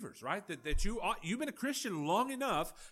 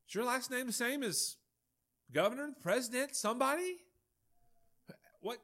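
higher, pressing mock interrogation; incredulous questioning; 5 semitones higher than usual. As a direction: needle him with disbelief, pitched up. Preacher acts out mocking questioning.

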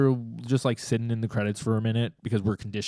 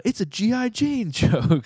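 quoting a joke; 12 semitones higher, 6 dB louder, slower than usual. Retold or imitated. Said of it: "They were like".

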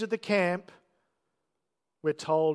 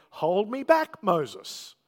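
mock plea; 2 semitones higher, 3 dB louder, much slower than usual. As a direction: toss it up like a fake restraint. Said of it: "the divine equivalent of saying".

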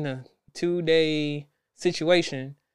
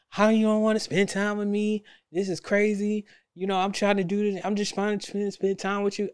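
mock upset girlfriend; 5 semitones higher than usual. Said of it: "She got upset".

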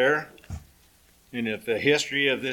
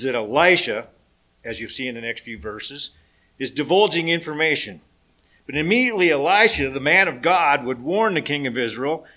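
lively sermon reading voice; scripture reading. Acted. Pastor to congregation, reading scripture with drive. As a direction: read the Bible story to the congregation with energy.

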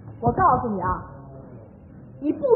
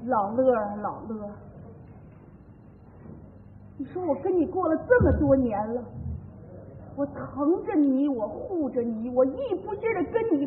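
hurt reproach; 4 semitones lower, 8 dB quieter than usual. Acted. Hurt wife opens heartfelt reproach.

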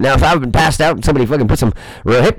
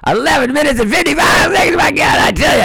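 much higher, shouted exclamation; excited yell; 12 semitones higher than usual. Real, not acted. Reading his own timer, excited yell. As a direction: blurt it out in surprise. Checking the clock, suddenly yelling.

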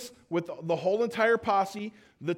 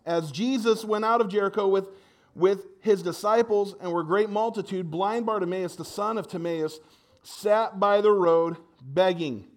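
scripture reading. Acted. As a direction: read God's word to the standing church. Reads scripture aloud.

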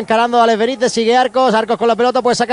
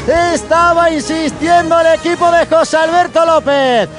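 breakneck goal commentary; 4 semitones higher than usual. Real, not acted. Excited goal recap commentary.

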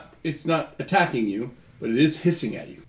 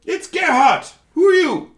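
very high, loud squeaky weasel voice; weird voice; 9 dB louder than usual. Acted. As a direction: introduce yourself in a shrill-pitched creature voice. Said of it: "It's kind of a weird voice".

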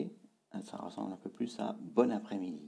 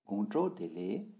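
"Gonjo dele" with alternating low and high tones; low-high tone pattern; 3 dB louder than usual. Shown as a demonstration. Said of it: "ton bas, ton haut".

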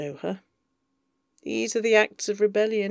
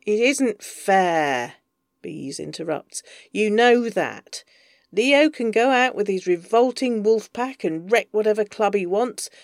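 raised, exasperated, louder; agitated interrupting; 4 dB louder than usual. Acted. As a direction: push over him, annoyed. Bees interrupts, agitated on phone.

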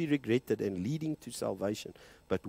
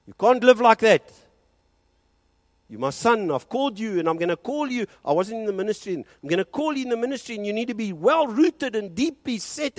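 God's voice; 11 semitones higher, 11 dB louder than usual. Retold or imitated. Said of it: "God wanted me to have a bit of a shake".

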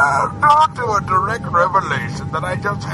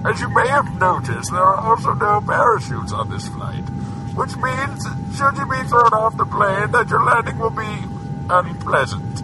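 pilot announcement. Acted. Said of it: "I'm Mark Driscoll, pilot".

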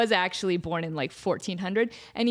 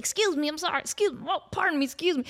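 polite intern; 4 semitones higher, faster than usual. Acted. Intern squeezing through party.

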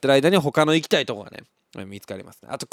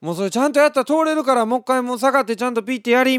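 high, fast, louder instructing dad; impatient father; 10 semitones higher, 5 dB louder, much faster than usual. Retold or imitated. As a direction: rattle off the instructions like a hurried father. Father instructs child at gate. (改札で子供に指示する父親、早口で高めの声)

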